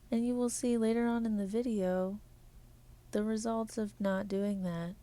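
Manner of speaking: even, measured robotic delivery. Acted. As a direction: talk like a polite robot. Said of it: "I'm done talking like a robot".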